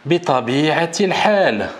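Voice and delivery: "Bi tabi'atil hal" very slowly, each syllable drawn out; very slow model phrase. Shown as a demonstration. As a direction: say it at half speed for learners. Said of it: "teacher models phrase".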